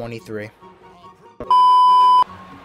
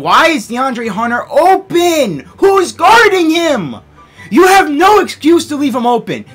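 raging gamer; 5 semitones higher, 4 dB louder than usual. Real, not acted. Shouting at defense.

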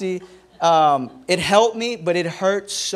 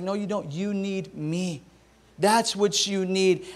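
gentle God; 6 dB quieter, slower than usual. Acted. God voiced answering gently.

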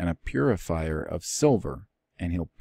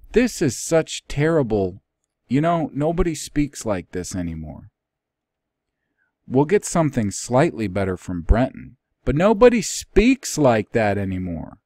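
higher, louder fed-up complaint; exasperated; 6 semitones higher, 7 dB louder than usual. Real, not acted. Teacher complains the old translation is unreadable, exasperated and raised.

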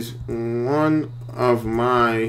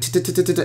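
rapid tongue clicks, higher; imitated clicking; 6 semitones higher, 3 dB quieter than usual. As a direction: tick off fast clicks with the mouth. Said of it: "he just kept doing it".

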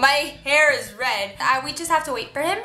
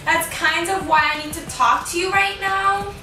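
put-on higher, sweet girlfriend voice; breakup skit voice; 4 semitones higher than usual. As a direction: play a sweet girlfriend letting him down.

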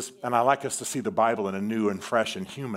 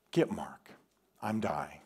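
dying man's plea; 3 semitones lower, 6 dB quieter than usual. Retold or imitated. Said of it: "he says".

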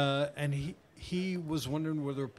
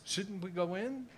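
Paul asking; 6 semitones higher than usual. Retold or imitated. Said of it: "He says".

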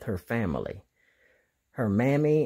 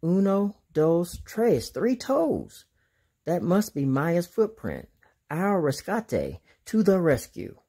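a lightly voiced eager boy, higher; Diego voice; 5 semitones higher than usual. Diego counting footprint toes for his friends, in a lightly voiced eager boy's voice. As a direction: count the toes brightly like a young explorer. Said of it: "he pointed to the one and said".

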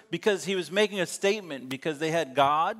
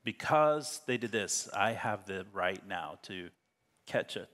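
Samson's inner vow; 7 semitones lower, 5 dB quieter than usual. Retold or imitated. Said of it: "And so he decides".

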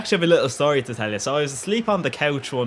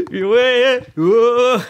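excited; 11 semitones higher, 8 dB louder than usual. Real, not acted. Excited reaction to gameplay.

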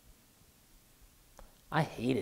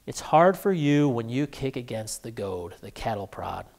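soft voice with a touch of a smile; gentle, smiling reproof; 2 semitones lower, 4 dB quieter than usual. Acted. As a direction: chide gently, dropping away softly at the end. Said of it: "a smile in that blessed voice now as he said to me gently, but irritatingly".

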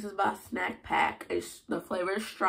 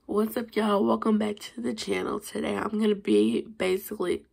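scratchy, hoarse greeting; 2 semitones higher, 3 dB louder than usual. Real, not acted. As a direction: talk through a sore, hoarse throat. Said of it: "sorry about my hoarse voice".

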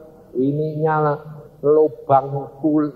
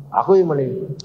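exasperated order; 2 semitones higher than usual. Retold or imitated. Tired husband ordering wife to sleep, exasperated.

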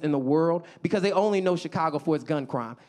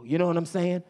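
ordinary talk

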